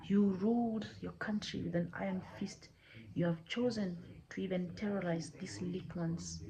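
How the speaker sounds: measured divine judgement with long pauses; grave, deliberate reproach, stretching key words; stern god of the land. Acted. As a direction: pronounce sentence as a solemn, controlled deity.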